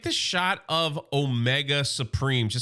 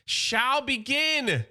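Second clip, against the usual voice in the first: menacing Megatron; 9 semitones higher than usual. Retold or imitated. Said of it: "He goes".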